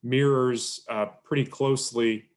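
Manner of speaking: choppy audio, words cutting out; bad connection. Real, not acted. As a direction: voice breaking up on a video call. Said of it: "You're breaking up a little bit".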